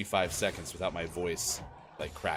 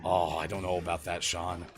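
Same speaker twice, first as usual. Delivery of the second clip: Andrew Luck impression; 4 semitones lower than usual. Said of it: "someone does an Andrew Luck impression".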